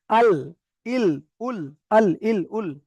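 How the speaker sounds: আল, ইল, উল one by one, l held at the upper gums; articulation drill. Shown as a demonstration. Teacher models the lam, separate held-l syllables আল, ইল, উল. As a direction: drill আল, ইল, উল with tongue tip behind the upper teeth. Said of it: "লামটা কিভাবে উচ্চারিত হয়".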